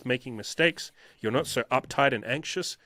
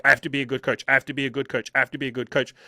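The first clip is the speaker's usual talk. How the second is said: mock anxious repeating loop; 3 dB louder, faster than usual. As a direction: rattle it off like a fixated worrier. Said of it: "I had this, like, anxious".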